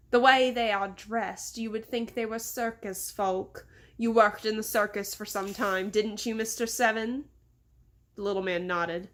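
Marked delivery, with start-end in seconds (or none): 0.1-7.3 condescending English boss. Acted. Boss taunts Mister Seven about the circus, mildly condescending English accent. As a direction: needle your servant with a light English accent.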